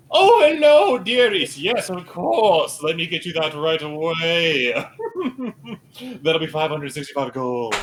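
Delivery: lightly voiced sweet saleswoman; a hint of a fawning merchant; merchant woman voice. Voicing merchant woman Moira.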